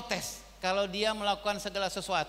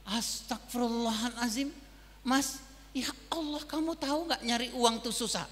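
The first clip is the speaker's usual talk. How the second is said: mock angry parent. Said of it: "marah gitu".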